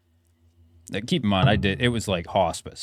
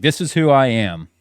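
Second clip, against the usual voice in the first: إعلان بصوت مرتفع; 6 semitones higher, 9 dB louder than usual. Retold or imitated. Retold shouting through the door.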